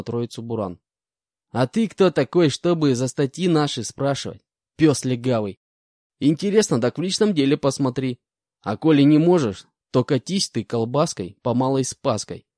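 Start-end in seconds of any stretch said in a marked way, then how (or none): 1.5-12.5 insolent. Acted. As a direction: sneer at the cop-dog. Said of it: "нагло ответил бес Бурану".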